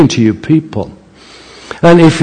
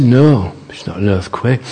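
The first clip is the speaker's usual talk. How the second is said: quiet reply; 2 semitones lower, 5 dB quieter than usual. Retold or imitated. Campbell calmly answers the minister.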